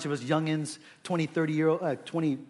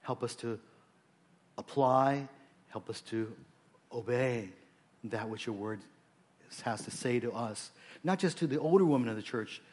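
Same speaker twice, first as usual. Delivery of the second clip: earnest pastor praying aloud, measured pauses; prayerful; 2 semitones lower than usual. Real, not acted. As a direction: lead the congregation in heartfelt prayer. Leads the congregation in prayer.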